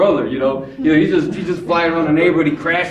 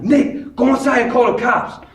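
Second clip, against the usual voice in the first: retold urgent call; 4 semitones higher than usual. Calls to friend during standoff.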